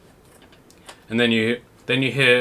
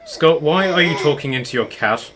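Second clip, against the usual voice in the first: another voice; 4 semitones higher, 3 dB louder than usual. Acted. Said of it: "you hear another voice and it's like".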